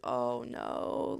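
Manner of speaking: low, mimicked note of sympathy; sympathetic reaction. Friend hearing about the choking, sympathetic. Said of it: "And she's like".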